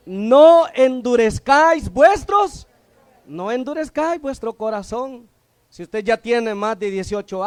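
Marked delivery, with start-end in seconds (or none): 0.1-2.7 preached warning. Real, not acted. Preacher quoting warning verse.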